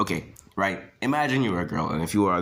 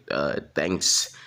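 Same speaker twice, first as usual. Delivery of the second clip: put-on unsure girl; 5 semitones lower than usual. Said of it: "And she'd be like".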